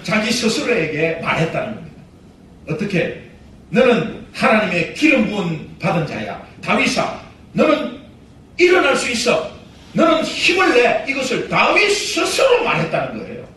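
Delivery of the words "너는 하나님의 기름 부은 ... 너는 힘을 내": rally yourself, rising to a cry; self pep talk. Acted. David urging himself to get up, building to a shout.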